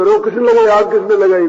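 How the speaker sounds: loud, acted demand for the culprit; angry outcry. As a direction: cry out as a wronged guru, mock outrage. Guru demands who set fire.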